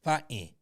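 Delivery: "fighting" said as fah-in, middle t swallowed; "fighting" in mock New York style; Bronx-style fightin'. Shown as a demonstration. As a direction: say "fighting" with an open ah and no g. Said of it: "Can you say it?".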